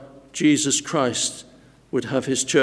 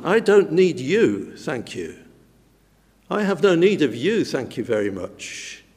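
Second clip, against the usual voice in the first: dismissive. Retold or imitated. Preacher mimicking proud church members brushing others off, mock dismissive. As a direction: wave them off politely but coldly, the thanks tossed away under the breath. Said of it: "It's a proud attitude".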